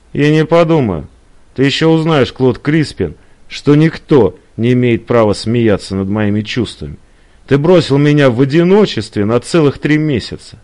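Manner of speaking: lightly voiced wronged woman, scolding; reproachful Eliza. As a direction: pour out reproaches at him.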